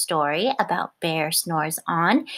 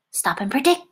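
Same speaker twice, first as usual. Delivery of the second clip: excited; 4 semitones higher, faster than usual. Real, not acted. Suspense before the sneeze.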